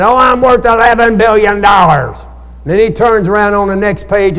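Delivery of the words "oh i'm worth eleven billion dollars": mock bragging. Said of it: "he brags on the internet".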